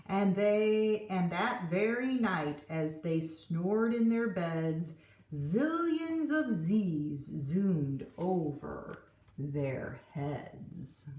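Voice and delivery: put-on lively read-aloud for kids; gentle storytime narration; storybook reading. A narrator's reading. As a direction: read it like a picture book at story time. Reading the picture book aloud.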